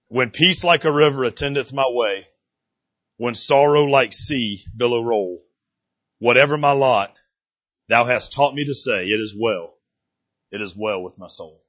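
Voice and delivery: measured reading, pausing after each line; solemn hymn recitation. Acted. Reads hymn verse aloud.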